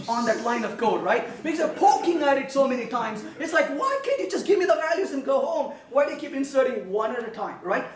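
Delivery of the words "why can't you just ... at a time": rapid, fed-up complaint; quick, peeved protest; mock exasperation. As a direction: play the collection pleading to be left alone. Voicing the fed-up collection.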